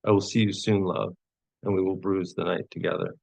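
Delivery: measured poetry-reading cadence with pauses; poem reading. Acted. Poet reads a poem of longing to an audience, measured recital. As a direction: recite a love poem, each line gently falling.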